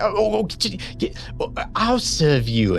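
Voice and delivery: very high, gushing mother's voice; a mother overcome at seeing her child; doting mother. Acted. Mother rushing to embrace her daughter, very high and gushing.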